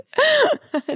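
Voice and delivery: a sudden high squeal of laughter. Real, not acted. Cohost laughing at airline bread rolls, high squealing laugh. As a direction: burst into a squeaky giggle.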